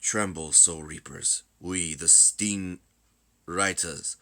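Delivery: slow, measured villain declaration; deliberate, grave threat; solemn invader's proclamation. Acted. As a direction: proclaim the purge slowly, with weighty pauses.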